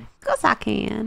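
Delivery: slow put-on American drawl; American accent. Shown as a demonstration. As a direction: show off an exaggerated American accent. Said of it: "can you do an American accent".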